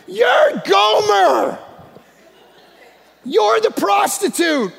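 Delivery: slow, loud, high declaration; booming pulpit proclamation; preaching shout. Real, not acted. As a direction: slam each word down slowly.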